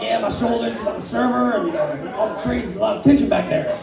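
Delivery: lightly put-on spa voice. Client answering the massage lady, in his spa voice. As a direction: slip into a smooth-talking spa voice. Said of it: "That's my spa voice".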